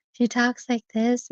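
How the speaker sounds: slow, lightly put-on sultry operator voice; mimicked sex phone operator. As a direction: attempt a slow phone-line seductress, half-hearted. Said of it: "see if I can mimic one".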